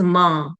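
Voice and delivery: MA left open, softly nasal; soft nasal anusvara. Shown as a demonstration. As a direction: let MA fade into the nose. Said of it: "anuswar is a nasal sound". (soft nasal MA, lips open)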